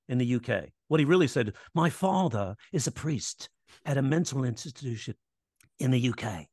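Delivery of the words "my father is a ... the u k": badly faked British accent; hammed-up, unconvincing British accent; horrible UK accent. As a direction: imitate a British man with a clumsy accent. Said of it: "So that's a really horrible accent".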